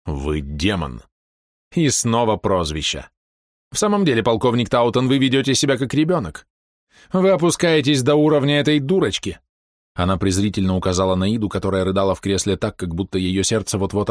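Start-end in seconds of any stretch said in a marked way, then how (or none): 0.1-1.0 name her a demon coldly; grim colonel. Acted. 3.7-9.4 high, louder contemptuous reproach; scornful scolding. Acted. Villainess scolds the colonel.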